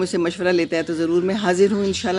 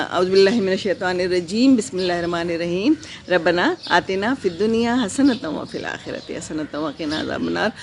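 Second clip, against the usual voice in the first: Quranic recitation. Real, not acted. (دھیمی، عقیدت بھری تلاوت)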